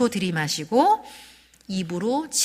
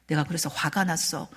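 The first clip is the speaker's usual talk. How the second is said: quiet calm statement; 4 semitones lower, 6 dB quieter than usual. Shown as a demonstration. 차분한 감정 표현 시범.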